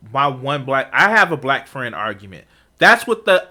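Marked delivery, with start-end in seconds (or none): 0.1-1.9 mocking quote. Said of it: "quite literally is using that".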